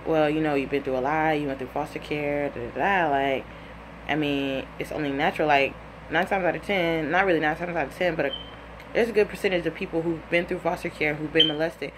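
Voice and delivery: low-key show of sympathy; coaxing reassurance. Retold or imitated. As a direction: gently talk him into opening up. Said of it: "tell him it's okay to tell me".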